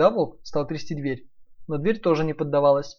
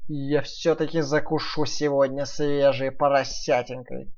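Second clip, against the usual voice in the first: wolf voice; slower than usual. Acted. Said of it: "подумал волк и, облизнувшись".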